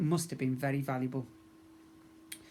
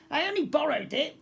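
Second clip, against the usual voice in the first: yelled; 12 semitones higher, 5 dB louder than usual. A narrator's reading. Goblin prince pleading with the pirate girl, high frightened yell. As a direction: plead while dragged.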